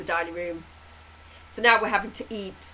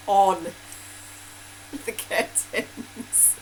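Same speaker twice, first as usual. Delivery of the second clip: whispery, slow, laughing; breathless laugh; much slower than usual. Real, not acted. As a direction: gasp it out through laughter.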